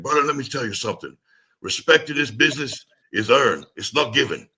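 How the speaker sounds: a hint of a Samoan mentor's accent; thick Samoan accent. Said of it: "in a thick Samoan accent".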